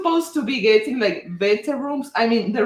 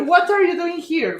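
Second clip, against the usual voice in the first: retold surprise; 5 semitones higher than usual. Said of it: "That was the first thought".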